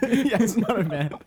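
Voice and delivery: giggling while talking; laughing. Real, not acted. Laughing at band joke.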